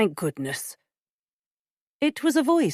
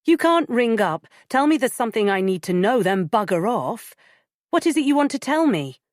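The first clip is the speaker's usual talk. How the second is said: indignant; 5 semitones higher, 4 dB louder than usual. Acted. Demanding he explain himself.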